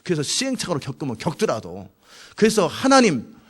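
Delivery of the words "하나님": acted challenge, pitched up at the start; confronting. Habakkuk questioning God about evil people, confronting. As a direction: press God for an answer. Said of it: "막 따지는 거예요".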